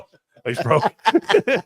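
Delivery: mock pity, dragging the word out; drawn-out tease. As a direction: drag out "broke" like a playful jab. Teasing Mike about buying beers.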